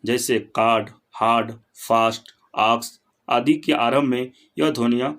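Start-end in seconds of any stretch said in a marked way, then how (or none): 0.6-3.0 "कार्ड, हार्ड, फास्ट, आक्स" with a fully open mouth; wide-open aa. Shown as a demonstration. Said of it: "मुख पूरा खुला रहता है".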